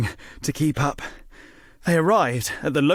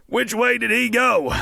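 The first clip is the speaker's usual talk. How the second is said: higher urgent question; breathless sheriff asking; 9 semitones higher, 3 dB louder than usual. A narrator's reading. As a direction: ask the first person on the street. Dan asking a passerby.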